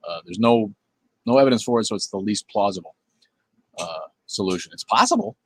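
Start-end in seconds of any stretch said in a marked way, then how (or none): 4.7-5.4 "possible" sung up high, a teasing catchphrase; mock-sweet catchphrase voice; catchphrase lilt. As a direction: toss it off as a pet phrase. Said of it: "as I like to say".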